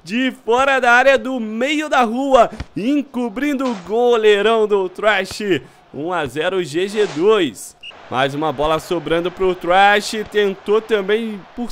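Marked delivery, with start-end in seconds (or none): 0.0-5.6 excited goal commentary. Real, not acted.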